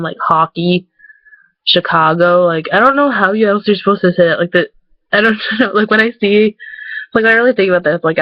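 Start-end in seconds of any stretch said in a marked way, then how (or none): 0.2-2.4 "hockey" as HAH-kee, "Chicago" as shih-KAH-go; broad ah in hockey and Chicago; open "ah" vowels. Shown as a demonstration. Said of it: "make our A's more like ahs".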